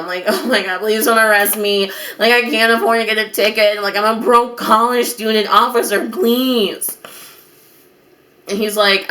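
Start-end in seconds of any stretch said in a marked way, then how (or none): 0.3-7.0 mild whiny pleading with an officer; freaking out. Retold or imitated. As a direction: beg with a touch of mock panic. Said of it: "freaking out".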